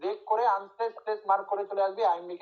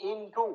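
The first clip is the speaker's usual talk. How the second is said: ইন টু with the weight on টু; second-syllable stress. Shown as a demonstration. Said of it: "তাহলে দ্বিতীয় সিলেবেলে stress হচ্ছে".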